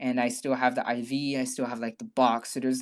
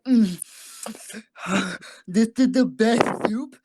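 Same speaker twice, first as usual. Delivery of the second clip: mock rapture; 6 semitones higher, 7 dB louder than usual. Savoring soup while drugged.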